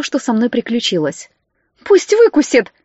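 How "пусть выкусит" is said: high, loud indignant snap; indignant outburst. Acted. Подруга возмущается, услышав историю Лизы: высоко и громко. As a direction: spit it out, outraged for her friend. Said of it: "возмутилась она".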